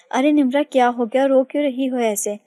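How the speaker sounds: startled concern that settles a little; worried alarm. Acted. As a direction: rush to a crying friend in alarm. Finds her friend sobbing.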